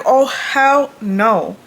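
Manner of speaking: drawn-out, disbelieving hell no; slow hell no. Retold or imitated. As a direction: drag it out in disbelief. Reacting to strangers arriving.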